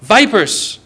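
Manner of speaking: sharp, strong rebuke, lightly acted; Jesus. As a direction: denounce them pointedly, drawing out each insult. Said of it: "Jesus said words like this".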